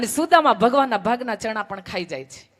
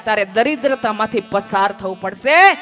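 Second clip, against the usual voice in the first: raised, louder voice declaring a curse; stern pronouncement; 5 dB louder than usual. Acted. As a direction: proclaim it like a divine sentence. Krishna pronounces curse on Sudama. (ઊંચા અવાજે કડક શાપ)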